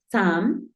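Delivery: "Sam" with an open A; U sounded as A. Shown as a demonstration. Teacher showing first syllable, U sounded as A. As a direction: slowly say "Sam" as "sahm". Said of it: "suena como una A".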